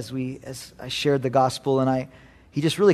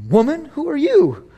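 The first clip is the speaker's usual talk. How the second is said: cocky prophet, much higher, rising to a shout; bold Elijah; 10 semitones higher than usual. Retold or imitated. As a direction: brag like a triumphant prophet. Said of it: "We think he'd say".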